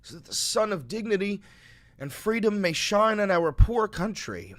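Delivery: heartfelt formal reading aloud; solemn letter reading. Acted. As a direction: read it like a eulogy, holding back grief. Reads a martyr's farewell letter.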